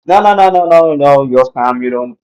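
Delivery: a hint of a bank manager, brushing him off; dismissive bank manager. Bank manager turning down a business loan, lightly voiced dismissive refusal.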